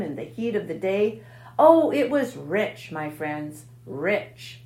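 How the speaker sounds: gloating, savoring every word; greedy rat boasting. Acted. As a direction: relish the feast like a glutton. Gluttonous rat boasting of feast.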